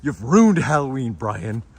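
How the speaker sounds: lightly voiced grave accusation; mild mock-serious scolding; deadpan serious dad. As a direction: repeat the dad's stone-faced line. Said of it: "He says it with the most serious face".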